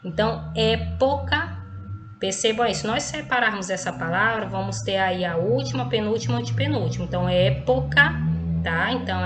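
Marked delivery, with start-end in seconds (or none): 0.5-1.6 "época" slowly with a strong É; teacher's separated syllables in "época", first one strongest; stress on first syllable. Shown as a demonstration. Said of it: "proparoxítona é a antepenúltima". 7.3-8.1 "época" loud and spelled out by syllable, strong É; teacher's emphatic, louder "época"; stress on first syllable. Shown as a demonstration.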